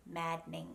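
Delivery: "maddening" said as mad-ning; no vowel after the D in "maddening"; "maddening" with a silent D; two syllables. Shown as a demonstration. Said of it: "Just two syllables".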